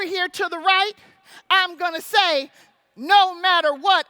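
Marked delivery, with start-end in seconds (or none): 3.0-4.1 rallying call to the crowd; battle cry. Acted. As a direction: call it out strong and loud. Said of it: "I gotta do a war call here".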